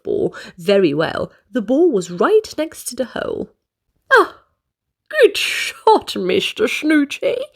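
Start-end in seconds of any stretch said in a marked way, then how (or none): 4.1-7.4 high cheerful praise; lightly voiced jolly golfer; happy. Mister Happy praises Mister Snooty's shot. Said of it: "said Mister Happy".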